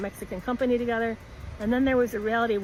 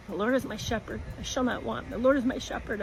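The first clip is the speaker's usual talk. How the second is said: a softly murmured retold prayer, quieter than her telling; 4 dB quieter than usual. Alone on the beach after the shock, praying softly under her breath. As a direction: mutter the Lord's Prayer while pacing the sand. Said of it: "I'm saying the Lord's Prayer".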